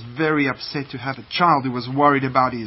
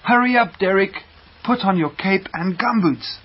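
high, louder, jolly call; cheerful shout; 5 semitones higher, 4 dB louder than usual. A narrator's reading. Duck family calling Derek out into rain, shouting cheerfully. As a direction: holler happily to hurry him along. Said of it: "the duck family shouted cheerfully".

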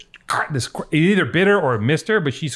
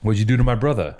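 put-on half-hearted Boston accent, pitched lower; bad Boston accent; 4 semitones lower than usual. Host mimicking the brother from The Town, weak Boston accent. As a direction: attempt a Boston accent and miss it. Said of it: "I can't do it in a Boston accent".

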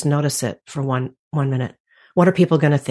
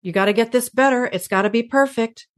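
inner critic voice; 7 semitones higher than usual. Retold or imitated. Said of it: "because I'm hearing".

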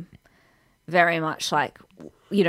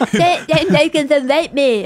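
high, loud, slow, laughing; high mock voice; 8 semitones higher, 5 dB louder than usual. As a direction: blurt it out dramatically.

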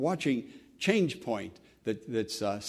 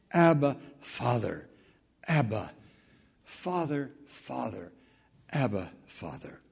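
tender prayer, fading; 4 semitones lower than usual. Real, not acted.

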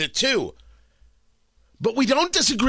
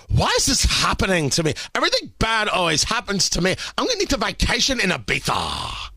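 mock whiny impression. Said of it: "she did bring me a new impression".

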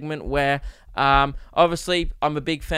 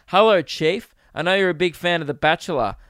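reading fan message; 2 semitones higher, 5 dB louder than usual. Retold or imitated. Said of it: "Sent me a message on Facebook and said".

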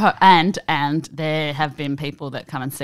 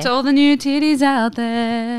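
laughing toast; 8 semitones higher than usual. Real, not acted.

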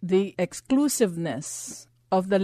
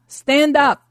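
loud slow command to rise; commanding shout; 8 semitones higher, 10 dB louder than usual. Acted. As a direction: call them up with full authority.

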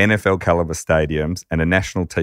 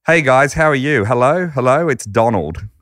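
loud, higher brash businessman on the phone; brash Donald; 6 semitones higher, 4 dB louder than usual. Retold or imitated. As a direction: play a brash, cocky caller. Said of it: "this loud, brash voice".

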